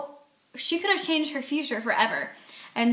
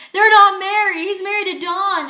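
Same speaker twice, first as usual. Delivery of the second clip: reader's panic; 8 semitones higher, 9 dB louder than usual. Retold or imitated. Reader panicking while reading.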